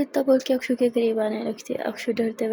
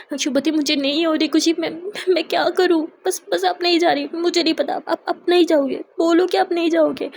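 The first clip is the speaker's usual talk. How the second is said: higher, louder, broken, stammering plea; distressed pleading; 4 semitones higher, 4 dB louder than usual. A narrator's reading. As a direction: beg her not to leave, voice cracking. Akshu begs Charu to stay. (घबराई हुई ऊँची मिन्नत)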